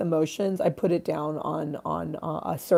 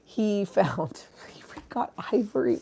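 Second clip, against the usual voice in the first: whisper; 6 dB quieter than usual. Real, not acted. Confessing dad's illegal ivory.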